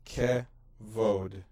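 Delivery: kevod said slowly, K-E-VOD; Hebrew reading demo. Shown as a demonstration. Teacher reads kevod slowly for learners. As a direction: model kevod for students. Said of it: "There's your O vowel".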